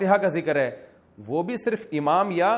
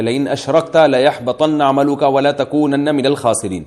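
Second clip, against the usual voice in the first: slow, measured recitation ending with الخاسرین; Quran recitation; 4 dB louder, slower than usual. Shown as a demonstration. Teacher quoting the verse to listeners, slow measured recitation. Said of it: "اللہ تعالیٰ کا ارشاد ہے".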